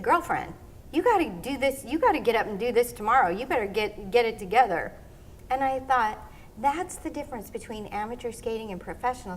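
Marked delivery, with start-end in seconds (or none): 0.0-4.9 firm pep talk. Retold or imitated. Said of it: "And he said".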